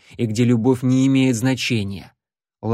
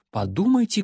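contemptuous snort; 8 semitones higher than usual. Acted. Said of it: "Ларри презрительно фыркнул".

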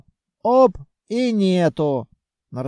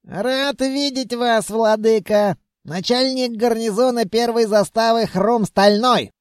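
reporting soldier; 5 semitones higher than usual. Acted. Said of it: "отрапортовал скелет".

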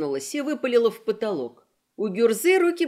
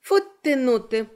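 put-on the girl scoffing at Gora's pomposity; mocking drawl. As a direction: drag it out mockingly. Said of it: "протянула неведомая девчонка".

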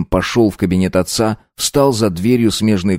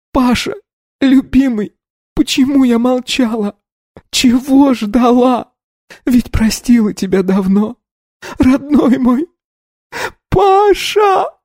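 high, breaking sobs rising to a shout; sobbing cry; slower than usual. A narrator's reading. Polina weeps on the floor for Pasha. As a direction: sob out your love, then cry his name. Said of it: "И она зарыдала".

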